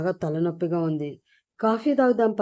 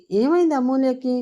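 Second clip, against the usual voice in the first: worried question, pitched up; anxious; 6 semitones higher than usual. A narrator's reading. Akshay seeing injured Amulya, anxious. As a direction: ask in sudden alarm. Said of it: "కంగారు పడుతూ తన దగ్గరికి వెళ్ళి".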